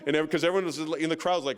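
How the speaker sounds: ordinary talk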